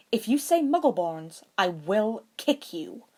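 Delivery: venomous threat. A narrator's reading. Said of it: "Hermione said venomously".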